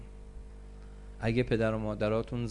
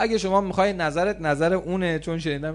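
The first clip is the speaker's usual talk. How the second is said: put-on defiant teen; 5 semitones higher, faster than usual. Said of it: "defiant teen retold".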